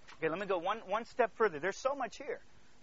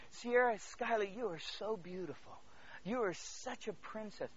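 tender adoration; 5 dB quieter than usual. Retold or imitated. Father telling his little daughters they're lovely, tender.

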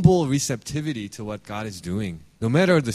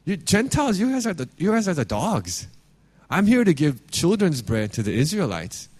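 higher, pointed mock bluntness; blunt paraphrase; 5 semitones higher than usual. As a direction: spell out the insult plainly, a bit higher. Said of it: "Basically, he's saying".

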